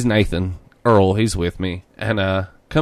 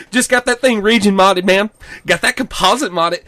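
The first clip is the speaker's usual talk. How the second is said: much higher, bragging bro voice; imitating the bro; 8 semitones higher, 3 dB louder than usual. Quoting the clerk, high bragging bro voice. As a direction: brag about mods like a bro. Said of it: "He's like".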